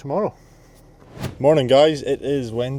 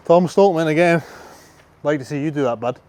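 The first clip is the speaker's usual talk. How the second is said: playful challenge; 4 semitones higher, 5 dB louder than usual. Real, not acted. Calling out a strongman.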